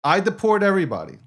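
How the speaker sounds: boastful mock strongman; dictator bluster. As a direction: play the self-declared dictator. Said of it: "Okay, Donald J. Trump".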